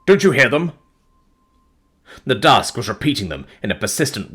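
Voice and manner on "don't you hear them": high, loud outburst; near cry. A narrator's reading. Narrator nearly shouting at the fiancée, loud outburst. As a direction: burst out at her. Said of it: "on the point of crying at her".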